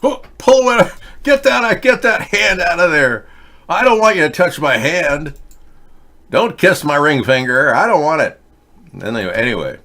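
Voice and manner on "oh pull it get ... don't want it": high, loud squeaky fussy Pope; shrill-voiced Pope recoiling from kisses. Pope pulling hand from kissers.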